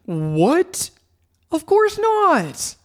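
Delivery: high, slow, shocked nerdy voice; stunned and offended, drawn out; shocked nerd. Acted. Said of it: "The nerdy voice replied, shocked".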